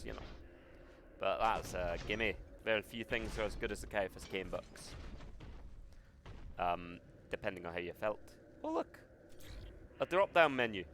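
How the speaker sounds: put-on lightly done Scottish accent. Hamming a Scottish accent for chat while playing. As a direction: play it in a hint of a Scottish accent. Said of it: "But that's enough of the accent".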